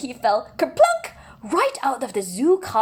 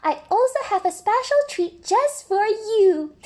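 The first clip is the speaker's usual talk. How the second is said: higher, happy thank-you; higher, glad zookeeper voice; grateful zookeeper; 11 semitones higher, 3 dB louder than usual. Acted. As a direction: thank George warmly as the zookeeper.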